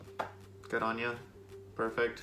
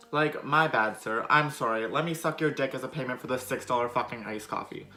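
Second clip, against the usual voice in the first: mock-contrite, punched at the start; scornful fake sorry over the coffee; sarcastic apology.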